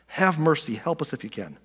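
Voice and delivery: understated, hushed begging; desperate plea. Acted. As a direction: plead softly, falling away at the end. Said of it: "Can you hear the desperation in his voice?".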